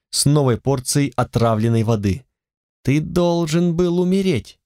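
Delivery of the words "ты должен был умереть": higher, scornful jailer voice; cold punisher. Acted. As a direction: speak down with contempt. Punisher addresses survivor.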